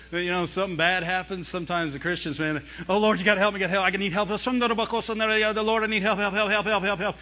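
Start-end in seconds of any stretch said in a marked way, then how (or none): 2.9-7.2 frantic run-on plea, higher-pitched; hammed-up panicked begging, help piling on help; fear praying. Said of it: "That's fear".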